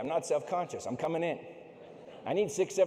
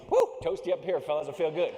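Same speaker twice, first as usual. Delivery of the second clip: loud cheery boast to freezing teammates; smug gloating; 6 dB louder than usual. Retold or imitated. Mountaineer boasting to his frozen teammates, smug and cheery. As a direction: gloat cheerfully, warm and comfy.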